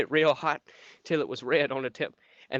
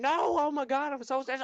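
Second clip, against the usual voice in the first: mock doctor; 12 semitones higher than usual. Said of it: "And then he said".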